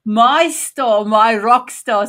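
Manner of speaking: emphatic hype. Real, not acted. Host hyping up her guest.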